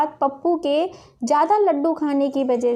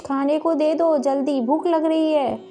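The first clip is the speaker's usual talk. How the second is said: put-on hungry boy's insistent call; stern, demanding call; 2 semitones higher than usual. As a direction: call out bossily for Ma, then demand. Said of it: "बड़ी कड़क आवाज़ में बोलता है".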